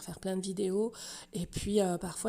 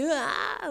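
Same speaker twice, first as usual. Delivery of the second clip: drawn-out, higher mock "ah"; imitated moan; 6 semitones higher than usual. Host shows viewers how he was, drawn-out imitated cry. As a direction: imitate him with a long "ah". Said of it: "voilà, comme ça".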